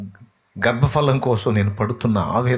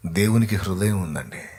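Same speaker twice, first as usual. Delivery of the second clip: ordinary talk, nothing marked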